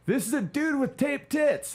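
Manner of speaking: mock shout. Reading the news feed aloud, mock shout. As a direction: blurt it out in disbelief.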